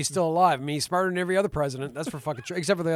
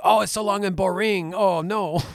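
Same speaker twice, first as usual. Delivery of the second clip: lightly imitated French coworker complaining; a hint of a higher-pitched, dismissive French guy; 3 semitones higher, 3 dB louder than usual. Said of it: "there's a French guy that comes into my work".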